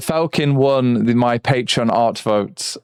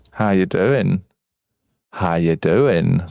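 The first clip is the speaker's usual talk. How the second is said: deep voice; 6 semitones lower, slower than usual. Shown as a demonstration. Voice changer switched on.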